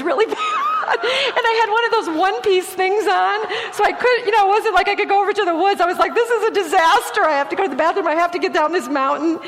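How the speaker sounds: can barely get the words out for laughing; real laughter breaking through the story. Real, not acted. Embarrassed bathroom story, laughing hard.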